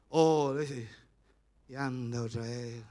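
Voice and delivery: low grumble under the breath; lightly acted disgruntled worker, voice dropped low; mock grumbling. Worker grumbling once the boss has spoken, mock grumbling.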